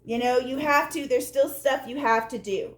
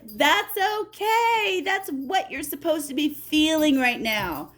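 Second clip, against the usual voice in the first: slow, higher gentle reassurance; reassuring Spirit; 4 semitones higher than usual. Acted. Spirit comforting the tired seeker, slow and gentle. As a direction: soothe the tired listener.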